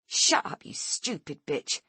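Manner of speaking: harsh, hissed insult; spitting it out. Acted. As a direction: spit the words with contempt. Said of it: "Angela spits".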